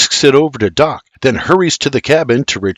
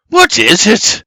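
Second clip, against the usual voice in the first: glaring retort; 8 semitones higher, 4 dB louder than usual. A narrator's reading. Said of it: "Doc turns and glares at him".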